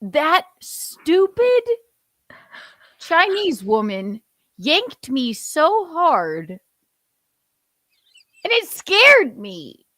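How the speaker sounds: slow, drawn-out indignant pope; hammed-up grievance with heavy, loud peaks; aggrieved pope. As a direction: play a wronged pope, word by word.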